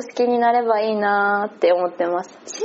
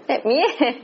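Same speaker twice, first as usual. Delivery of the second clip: higher, laughing retold reaction; mock bewilderment; amused disbelief; 4 semitones higher than usual. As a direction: act out baffled surprise through a laugh. Acting out reaction to boxed cake.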